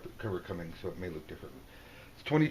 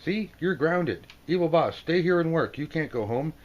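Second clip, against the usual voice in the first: stepfather scolding; 4 semitones higher, 5 dB louder than usual. Acted. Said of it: "stepfather saying".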